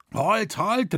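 high-pitched urgent call. A narrator's reading. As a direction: call out to stop someone. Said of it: "rief er".

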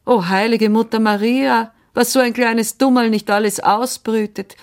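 high, loud, exasperated amazement; shocked exclamation. A narrator's reading. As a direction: exclaim in astonishment at a child's notion. Woman exclaims at child's mistaken idea.

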